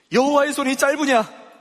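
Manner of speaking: emphatic rhetorical question. Acted. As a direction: press the question hard at the congregation. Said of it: "여호와께서 모세에게 이르시되".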